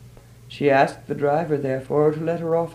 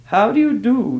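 polite; 8 semitones higher, 8 dB louder than usual. A narrator's reading. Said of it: "she said politely".

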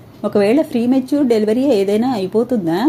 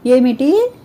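a sharp, rising "ఏమిటి?" in disbelief; stunned "ఏమిటి?", higher and louder; shocked; 3 semitones higher, 3 dB louder, much slower than usual. Acted. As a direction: gasp out "ఏమిటి?" as the news hits. Shocked at news of patient.

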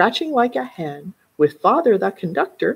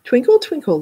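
squeaky violin; 6 semitones higher, 4 dB louder than usual. A narrator's reading. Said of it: "came squeaking through the breeze".

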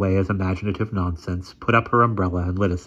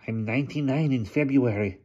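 hunchback assistant; 5 semitones higher than usual. A narrator's reading. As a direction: speak like a sly old hunchback.

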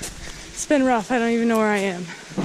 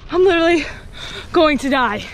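panting from the climb; breathless from climbing uphill; out of breath; 4 semitones higher, 3 dB louder, faster than usual. Real, not acted. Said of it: "I can't even speak".

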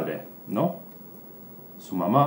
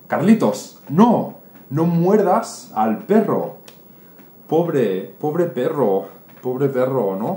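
higher, louder scolding; scolding mother; 4 semitones higher, 4 dB louder than usual. Acted. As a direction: tell the boy off firmly. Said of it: "su madre dice". (la madre regaña a Carlitos, más alto y agudo)

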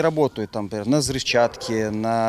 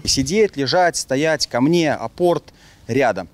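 dog commands; slower than usual. Shown as a demonstration. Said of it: "То есть это база".

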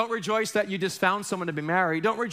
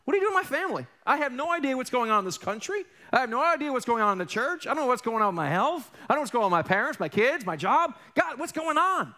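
high, pleading cry to God; anguished prayer; 5 semitones higher, faster than usual. Retold or imitated. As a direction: voice a confused believer begging God for answers. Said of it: "you ever feel that way?".

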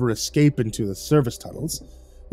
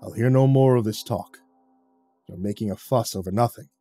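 lower, softer, calm rebuke; gently; 5 semitones lower, 5 dB quieter than usual. A narrator's reading. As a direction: soothe him like a steady elder. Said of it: "Gently, he said".

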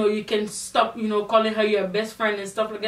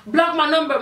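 higher-pitched mock indignation; imitating him, raised and insistent; retold indignant demand; 5 semitones higher, 4 dB louder than usual. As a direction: act out an indignant phone demand. Retelling his demand on phone.

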